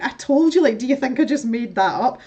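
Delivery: high, loud I-told-you; exasperated. Retold or imitated. To doubting friends, an indignant told-you-so.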